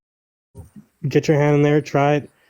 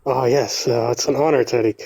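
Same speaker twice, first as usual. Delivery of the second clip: Moroccan accent. Real, not acted. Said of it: "you sound North African".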